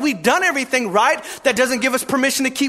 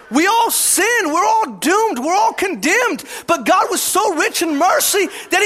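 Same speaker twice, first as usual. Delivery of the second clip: preaching; 3 semitones higher than usual. Acted. Pastor driving home to congregation, preaching. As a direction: preach it out with weight on all.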